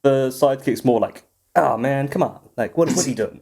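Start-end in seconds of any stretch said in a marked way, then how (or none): 1.5-3.4 mock sidekick voice. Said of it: "that kind of voice".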